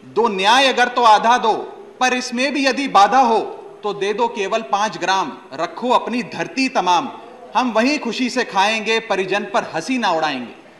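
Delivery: measured, rhythmic Hindi verse recital; poem recitation. Acted. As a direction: recite epic verse to the assembly, line by line. Recites Dinkar's epic poem.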